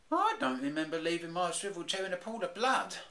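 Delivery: put-on high childlike cub; little bear deadpan about blood; Baby Bear voice. Baby Bear listing the damage, high little-cub voice.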